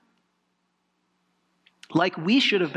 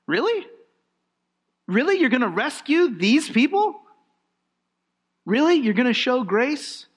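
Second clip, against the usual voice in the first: incredulous doubter. Pretend. Preacher voicing a sinner amazed at God's grace, in disbelief. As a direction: ask it as if you can't believe grace.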